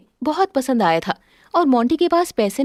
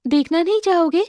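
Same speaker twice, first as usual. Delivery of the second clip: lightly raised tender wife voice; Shailja, tender; 4 semitones higher than usual. Acted. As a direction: offer the gift gently. Shailja offers her gift. (पति को उपहार दिखाती पत्नी, कोमल स्वर)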